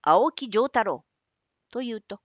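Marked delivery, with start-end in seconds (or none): 0.0-1.0 slow, loud name; proud declaration. Acted. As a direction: announce the name boldly. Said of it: "拙者は".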